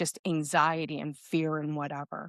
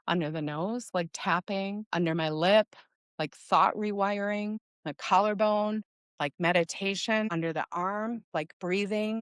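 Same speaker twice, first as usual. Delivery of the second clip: guided tapping sequence. Shown as a demonstration. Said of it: "I will say the location as we go through the tapping sequence".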